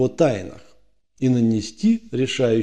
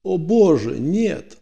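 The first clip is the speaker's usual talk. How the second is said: having a heart attack; 6 semitones higher, slower than usual. Acted. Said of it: "вдруг охнул и схватился за сердце".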